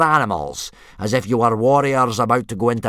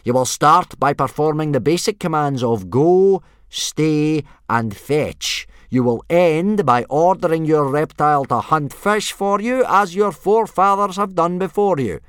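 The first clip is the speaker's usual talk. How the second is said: loud, raised parade-ground bellow; yelled orders; 8 semitones higher, 9 dB louder than usual. A narrator's reading. Instructor laying out the test to boys, yelling. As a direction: bark the rules at nervous recruits. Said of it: "yelled Gobber".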